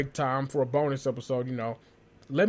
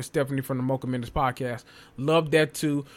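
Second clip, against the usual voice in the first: winded after long rant; out of breath. Real, not acted. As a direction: talk while short of breath. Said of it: "I'm out of breath now".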